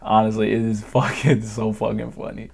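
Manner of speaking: ordinary talk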